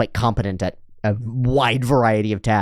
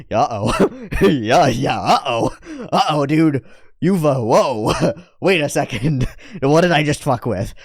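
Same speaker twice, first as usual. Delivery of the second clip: nervous laughing; 5 semitones higher than usual. Real, not acted. Reacting to Eris's rage, laughing.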